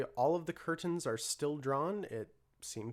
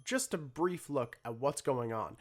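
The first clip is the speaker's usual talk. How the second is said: news anchor. Acted. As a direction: deliver it like a TV anchor on air. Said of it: "begins to speak".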